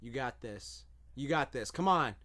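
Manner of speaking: loud, high gym hype man; hype coach voice. Shown as a demonstration. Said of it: "affirmations where I, like, tell you".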